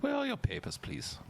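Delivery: very high, prim official voice; mock guard demand. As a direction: ask for papers like a creepy guard.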